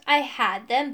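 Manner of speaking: parroting the excuse with exaggerated woe; mocking imitation. A narrator's reading. Rival throws the magician's excuse back, mockingly. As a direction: mimic it scornfully.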